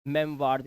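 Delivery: "मेमवार्स" with waa in the second syllable; "waa" sound. Shown as a demonstration. Teacher repeats the answer for learners, waa in "मेमवार्स". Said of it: "यहाँ पे आवाज आ रही है वा की".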